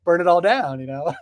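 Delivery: a lightly voiced mafia heavy, casual and threatening; hint of a mob enforcer making a friendly threat; mafia extortionist. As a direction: play a smooth extortionist leaning on a shop owner. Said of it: "like she's a mafia extortionist being like".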